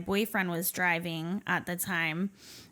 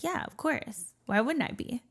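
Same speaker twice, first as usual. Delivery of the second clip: chirpy, much higher cover-up, brushing it off; fake breezy denial; 6 semitones higher than usual. Hiding the black eyes from coworker, falsely chirpy high denial. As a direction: sell the lie with a bright high lilt. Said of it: "I was like".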